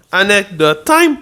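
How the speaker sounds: announcer voice. Pretend. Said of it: "announces segment again".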